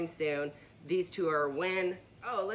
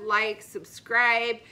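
upbeat outro; 5 semitones higher, 7 dB louder, much slower than usual. Real, not acted. Sign-off call to subscribe.

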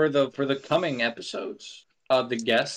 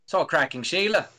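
put-on Australian accent; 4 semitones higher than usual. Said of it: "Nah, it's still British".

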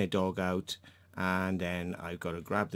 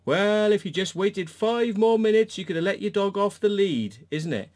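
retold raised retort; 10 semitones higher, 6 dB louder than usual. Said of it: "I just said".

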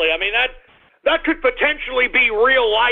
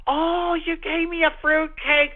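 fake gratitude; 3 semitones higher, slower than usual. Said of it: "I've gotta do the".

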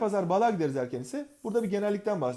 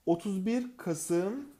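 Otuz bir Kasım said very slowly, word by word; slow, spelled out; 3 semitones higher, much slower than usual. Shown as a demonstration. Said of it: "Kasım diye diyelim". (Otuz bir Kasım yavaşça, tane tane)

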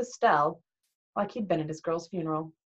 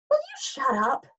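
sharp, higher outburst; blurted too loud; 7 semitones higher than usual. Acted. Percy turning on Nancy in class, blurting too loud. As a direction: snap it out louder than you meant. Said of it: "It came out louder than I meant it to".

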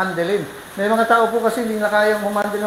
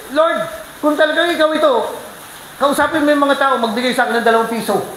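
raised-pitch plea to God; acted plea; 5 semitones higher than usual. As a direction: act out an insistent prayer, starting high. Acted prayer asking God for proof. (mapilit na pagsamo sa Diyos)

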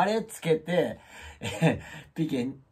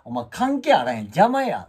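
mock scolding; 2 semitones higher, 7 dB louder than usual. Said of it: "って".

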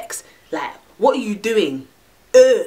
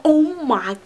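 mock orgasm; slower than usual. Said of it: "I make her go".

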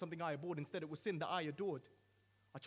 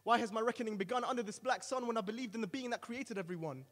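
much higher and louder anguished wail; wailing at top of lungs; 7 semitones higher, 8 dB louder than usual. Acted. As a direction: cry it out with all your lungs. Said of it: "begin to wail at the top of my lungs".

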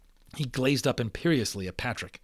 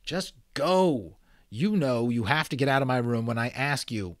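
put-on boy's voice; 3 semitones higher, 4 dB louder than usual. A narrator's reading. Omri pushing brothers out.

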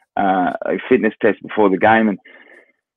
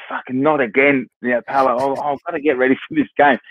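raised, fast and fed up; exasperated; 4 semitones higher than usual. Retold or imitated. Player brushing off nagging teammate, exasperated.

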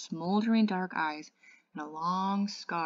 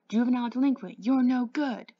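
higher, louder mock shout; 6 semitones higher, 7 dB louder than usual. A narrator's reading. Derry shouting a taunt at the greasers, louder. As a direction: shout it like a jeer. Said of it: "Derry shouted".

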